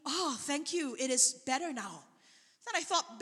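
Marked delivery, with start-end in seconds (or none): 0.1-2.0 subdued thanks. Retold or imitated. Woman thanking him after a partial healing, subdued thanks. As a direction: voice her tentative gratitude softly.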